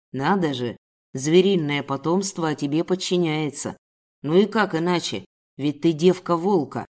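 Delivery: lightly voiced contemptuous man; sneering captor. Captor mocking woman and cubs, mild sneer.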